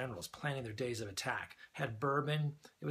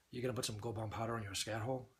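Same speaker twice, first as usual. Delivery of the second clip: imitated deadpan question; dry, level disbelief. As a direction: ask it utterly straight, no emotion. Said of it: "deadpan and goes".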